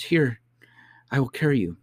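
high-pitched, hurried nursemaid; harried nurse's high voice; flustered nurse. Acted. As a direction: offer it in high-pitched agitation. Flustered nurse offers to carry.

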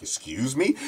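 indignant retold "excuse me"; offended. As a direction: imitate an affronted woman's question. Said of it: "She's so offended".

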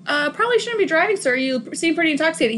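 a high, brisk, prim cop voice, fast; imitating Angel. Retelling Angel to a drunk, prim and fast. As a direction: rattle it off like a stiff officer. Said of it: "Angel straight up".

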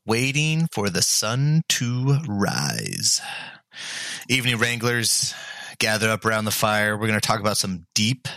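sultry late-night host voice. Acted. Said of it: "What's up with the sultry voice?".

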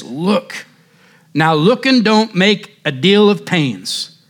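put-on a touch of an English country accent, preaching hard; slipping into the preacher's accent. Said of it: "can't help it".

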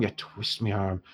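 put-on dwarf shopkeeper in an Irish accent conceding under his breath; quiet Irish repeat. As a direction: let it fall away in Irish. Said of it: "I've gone entirely Irish now".

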